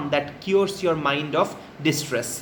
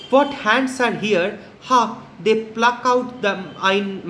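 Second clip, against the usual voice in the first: dramatic reading; 2 semitones higher than usual. Acted. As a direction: declaim it as a guilty man staring at his hands. Teacher reads Macbeth's lines.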